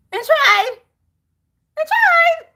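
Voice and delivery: escalating exasperation. Acted. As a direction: push it up, fed up and pleading.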